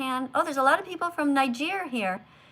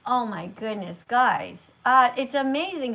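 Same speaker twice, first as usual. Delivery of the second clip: amazed; 5 dB louder than usual. Real, not acted. Sees flood of subscribers.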